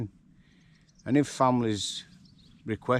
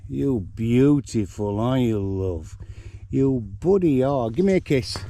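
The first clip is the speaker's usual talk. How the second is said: pet talk; 3 semitones higher, 6 dB louder than usual. Real, not acted. Cooing at pet donkey.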